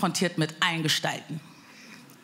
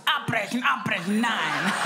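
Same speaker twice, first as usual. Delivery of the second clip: panische Mutter; slower than usual. Retold or imitated. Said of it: "Die rastet aus".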